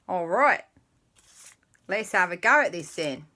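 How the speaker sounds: hammed-up Aussie accent; put-on Australian accent. Storyteller getting ready to begin, in a mock Australian accent. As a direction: launch in with a mock Australian twang. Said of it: "I'll try not to do it all in an accent".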